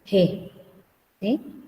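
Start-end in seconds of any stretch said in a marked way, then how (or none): 0.1-0.5 H said as "G", a Spanish je; Castilian J sound. Shown as a demonstration. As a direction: say "G" as je, with the rough Spanish J. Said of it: "entonces en castellano sería". (sonido de jota castellana en "G")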